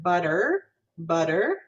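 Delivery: colour the end of "butter" with R; American R-coloured ending. Shown as a demonstration. Teacher showing American pronunciation, "butter" ending in er. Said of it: "have more of that er color".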